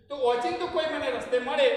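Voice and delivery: emphatic ઓચિંતું; stress on ઓચિંતું. Shown as a demonstration. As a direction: hit the word ઓચિંતું. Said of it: "રીત અચાનક ઓચિંતું".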